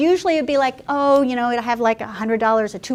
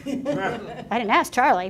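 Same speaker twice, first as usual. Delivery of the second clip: laughing; 4 dB quieter, slower than usual. Retold or imitated. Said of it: "And I was like".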